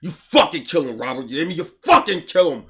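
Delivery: building loud insistence; emphatic order. Retold or imitated. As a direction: hammer home kill him.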